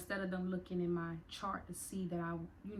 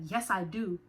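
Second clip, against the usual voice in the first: louder, indignant retort, retold; mad yelling back; 6 dB louder than usual. Detainee answering the officer's denial, retold angry yell. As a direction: push back at the officer, raised voice. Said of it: "got mad and I yelled back".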